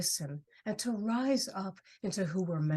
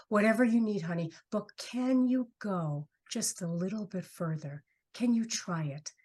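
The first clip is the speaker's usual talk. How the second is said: coaxing herself. Retold or imitated. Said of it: "I just kept coaxing myself".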